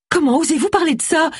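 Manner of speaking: high-pitched outrage; indignant cry, pitched right up. Acted. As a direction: protest in offended disbelief. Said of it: "S'indigna Gwen".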